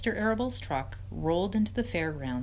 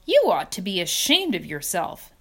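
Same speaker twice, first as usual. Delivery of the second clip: disgust; 6 dB louder than usual. Acted. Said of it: "said Charlotte in disgust".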